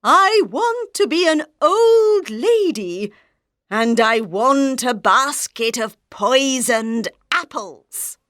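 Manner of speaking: lightly voiced scheming queen; wicked queen. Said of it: "she said".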